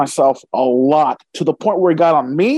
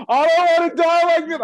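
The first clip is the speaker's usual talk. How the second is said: imitating crying; 9 semitones higher than usual. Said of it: "crying, like".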